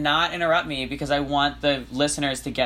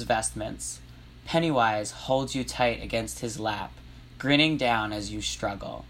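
measured read-aloud narration, slightly lowered; composed teacher narrating a story; 2 semitones lower than usual. Acted. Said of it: "I'll use my teacher voice for the narration".

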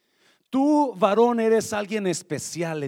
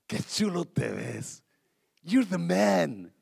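slower admiring compliment; slower than usual. Shown as a demonstration. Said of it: "Míralo y dígalo".

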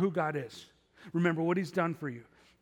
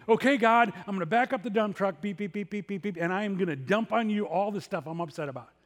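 hammed-up venting at God like a reversing dump truck; mock complaining prayer; 3 semitones higher, 6 dB louder than usual. Preacher mimics his own morning urge to complain to God, loud and fed up. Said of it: "that's how I wanna pray".

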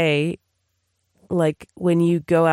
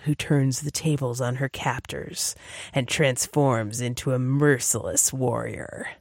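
slow, dramatic trailer narrator; movie trailer voice; 3 semitones lower, 3 dB quieter than usual. Shown as a demonstration. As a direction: announce it like a film trailer. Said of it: "let me do the movie trailer one sentence summary".

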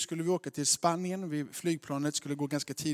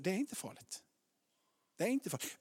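softer, slightly raised reassurance; reassuring; 3 semitones higher, 5 dB quieter than usual. Retold or imitated. Father to frightened daughters, soft reassurance. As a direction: soothe scared little children.

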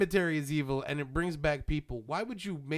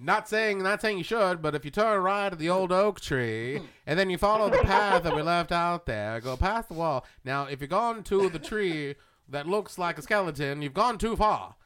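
lightly voiced folksy old man, a bit louder; old neighbor voice; 3 dB louder than usual. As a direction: give directions like a sly old local. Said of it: "We should have done this voice the whole podcast".

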